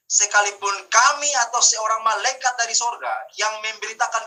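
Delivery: emphatic Bible reading from the pulpit; scripture reading. Real, not acted. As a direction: read the verse out firmly to the congregation. Reads a Bible verse aloud.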